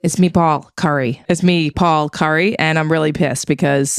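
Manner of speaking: slow, deliberate intro; slow drawn out Paul. Shown as a demonstration. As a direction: stretch the name out slowly. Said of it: "Be a little more monotone".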